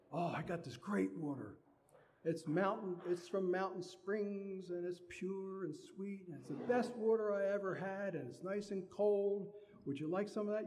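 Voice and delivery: a hint of a gushing host offering water. Host bragging to a guest about water, lightly voiced.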